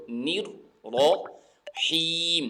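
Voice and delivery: very slow نر رحیم with the ha drawn out; correct pronunciation. Shown as a demonstration. Teacher contrasting the right reading, slow and drawn out. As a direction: stretch رحیم with a clear ha. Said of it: "مجہول نہیں پڑھنا زیر کو".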